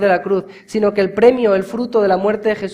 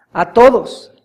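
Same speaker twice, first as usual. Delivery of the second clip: louder "a todos", hit hard; emphatic repeat; 3 semitones higher, 8 dB louder, slower than usual. Shown as a demonstration. Preacher insisting that salvation is for all, emphatic. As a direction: punch "a todos" the second time.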